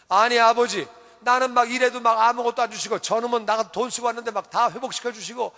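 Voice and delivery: indignant protest to a father; wronged older son, mildly acted; acted anger. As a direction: complain hotly in a run-on rush of grievance. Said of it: "막 화를 내는 거예요".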